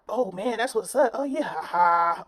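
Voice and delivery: mocking childish voice. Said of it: "all that childish shit".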